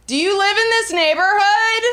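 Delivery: high-pitched mock yell at a stranger; imitated shout. Guy shouting at a woman walking home, imitated yell. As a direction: call out aggressively, imitating a street heckler. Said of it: "and he shouts".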